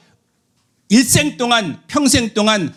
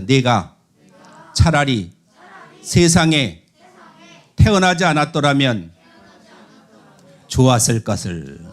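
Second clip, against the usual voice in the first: solemn recitation; 7 semitones lower than usual. Shown as a demonstration. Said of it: "따라하세요".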